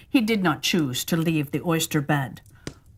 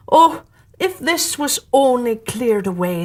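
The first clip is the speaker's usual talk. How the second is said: walrus voice; 4 semitones higher, 4 dB louder than usual. Acted.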